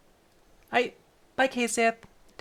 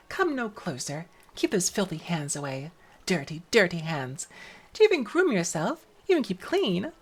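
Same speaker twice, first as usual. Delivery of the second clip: haughty cat voice; 3 semitones lower than usual. Acted. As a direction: look down on the girl.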